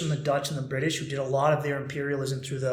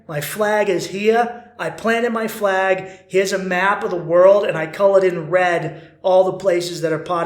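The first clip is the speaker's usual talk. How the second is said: a lightly hammed-up colonial ruler, slow and louder; pompous imperialist; 5 dB louder than usual. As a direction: strut it like a smug empire showing off its map. Empire boasting about its conquests.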